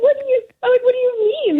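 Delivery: high-pitched squeal of a question; voice gone high. Retold or imitated. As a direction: ask it way up high, incredulous. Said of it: "Why did your voice go up so high".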